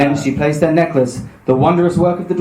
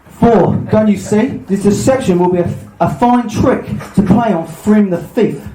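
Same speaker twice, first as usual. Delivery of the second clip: slow, raised theatrical storybook villain; scheming Loki; 5 semitones higher, slower than usual. Acted. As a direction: coax Thor grandly, drawing the words out. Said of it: "doing this podcast with Del Boy".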